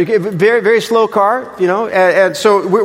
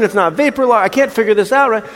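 higher, exasperated storytelling; irritated; 6 semitones higher, 3 dB louder than usual. Retold or imitated. Husband reliving the breakdowns, exasperated. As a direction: let the irritation rise as the car dies again. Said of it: "So I am irritated".

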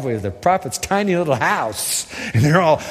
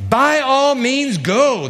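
king's voice; 7 semitones higher, much slower than usual. Acted. King of Syria replies.

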